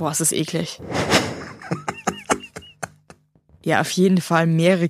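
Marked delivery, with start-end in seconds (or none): 0.8-2.6 breathy high laugh. Real, not acted. Disgusted laugh at gross question.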